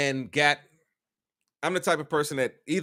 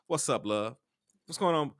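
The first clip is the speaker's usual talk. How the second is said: casual greeting; 2 semitones lower, 7 dB quieter than usual. Retold or imitated. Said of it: "I respond to everybody, especially ladies".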